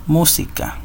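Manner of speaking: Música leaning on the first syllable, MÚ-si-ca; stress on MU. Shown as a demonstration. Teacher repeating the example for pupils, Música stressed on MU. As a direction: put the weight on MU in "Música". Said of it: "en la sílaba mu".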